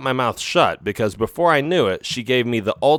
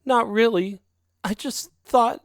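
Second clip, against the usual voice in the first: put-on higher, coaxing young female cat voice; sly girlfriend cat; 11 semitones higher than usual. A narrator's reading. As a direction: sweet-talk him into a favour. Narrator voices Isabel.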